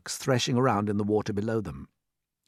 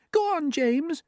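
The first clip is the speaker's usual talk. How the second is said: gently; 3 dB louder, slower than usual. Acted. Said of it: "the ladybird said gently".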